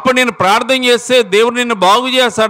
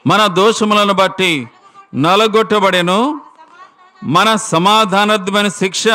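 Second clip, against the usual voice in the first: solemn scripture reading. Acted. Preacher reads next verse slowly.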